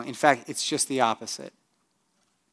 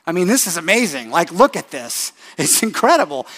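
louder, boasting, pleased with himself; bragging God; 5 dB louder than usual. Retold or imitated. Preacher voicing God gloating over creation, loud bragging. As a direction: brag about the creation, showing off. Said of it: "He bragged".

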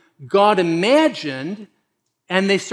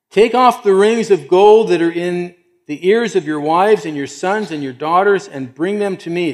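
loud, raised proclamation easing off; commanding leader; 3 semitones higher, 6 dB louder than usual. Acted. Aaron orders the people to bring their gold, loud and commanding. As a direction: issue the order at full voice.

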